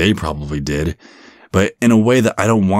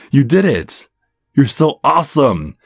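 high, delighted praise; proud cheering; 7 semitones higher than usual. Acted. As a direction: gush over the client's finished set. Trainer praises client after set.

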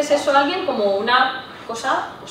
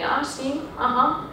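flat neutral tone; 3 semitones higher, much slower than usual. Shown as a demonstration. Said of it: "un tono así como muy neutro".

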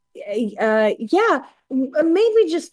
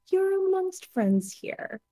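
gentle reassurance; 6 semitones higher, 4 dB quieter than usual. Acted. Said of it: "touch his arm very gently and go".

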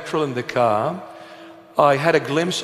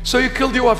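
raised disbelieving question; incredulous; 9 semitones higher, much faster than usual. Retold or imitated. Deacon asking the passenger about his wife, raised disbelief. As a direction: ask it in stunned disbelief.

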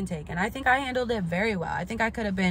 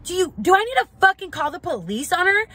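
much higher, louder indignant shout; mom shouting; 10 semitones higher, 6 dB louder, faster than usual. Retold or imitated. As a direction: shout it to the whole room. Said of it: "she's like".

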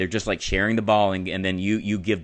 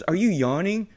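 Tony Stark; 11 semitones higher, 6 dB louder than usual. Retold or imitated. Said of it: "Tony Stark goes".

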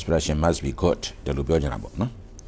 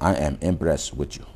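I am impressed with you, every word slow and separate; slow, full form; 4 dB quieter, much slower than usual. Shown as a demonstration. Teacher showing students the full form, slowly. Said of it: "ဒီလိုပြောရတယ်".

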